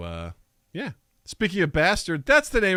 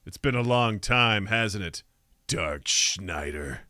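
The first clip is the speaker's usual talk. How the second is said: put-on old priest; 8 semitones lower, 4 dB quieter than usual. Old priest greets sorcerer.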